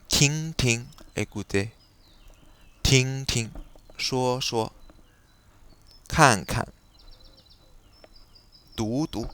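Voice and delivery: «ting, ting» avec la seconde syllabe au ton neutre, léger; repeated Mandarin syllables, the second one light and toneless; syllabes répétées chinoises. Shown as a demonstration. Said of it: "le verbe". (redoublement, deuxième syllabe neutre)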